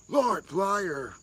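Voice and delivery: high, loud mock denouncing; mock accusation. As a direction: imitate an accuser crying out. Acts out crowd attacking a whistleblower.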